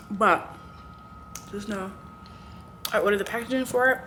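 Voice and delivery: talking through a mouthful of banana; mouth full. Real, not acted. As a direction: chew while you speak. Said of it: "I'm not talking with my mouth full".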